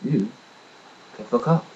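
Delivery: "You can fuck off" in an even, level voice; very calmly. Retold or imitated. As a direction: say it coolly, no heat at all. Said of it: "I very calmly said".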